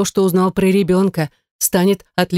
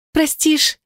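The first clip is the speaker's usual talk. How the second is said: desperate plea; 10 semitones higher than usual. Acted. Sister begs forgiveness.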